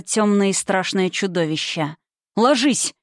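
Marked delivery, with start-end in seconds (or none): 2.4-2.9 a mildly raised cry of Ложись; shouted warning. Acted. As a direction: call out the warning, lightly acted. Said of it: "крикнул мужчина".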